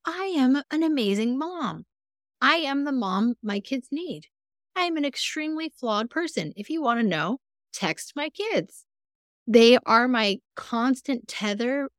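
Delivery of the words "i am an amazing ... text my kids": self affirmation. Retold or imitated. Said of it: "Instead of like".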